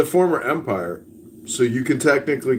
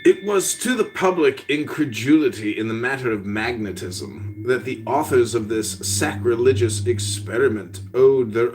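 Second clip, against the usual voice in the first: measured, formal reading voice; theatrical storyteller reading aloud; story narration; 3 semitones lower than usual. Acted. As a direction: read it like an old tale.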